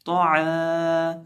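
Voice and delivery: तो आ chanted very slowly, long vowel held; drawn-out recitation. Shown as a demonstration. Teacher models the syllable for students, slow chant. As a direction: stretch तो आ like Quran recitation. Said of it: "आइन ज़बर अलिफ आ".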